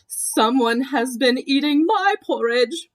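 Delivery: a medium bear, a bit brighter; Mama Bear indignant about her porridge; middle-sized voice. Acted. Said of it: "in her middle-sized voice".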